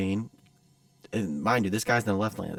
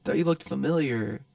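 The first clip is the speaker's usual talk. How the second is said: higher, hesitant impersonation; timid stranger; 5 semitones higher than usual. Retold or imitated. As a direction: fumble through an awkward approach. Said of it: "and, like, timid".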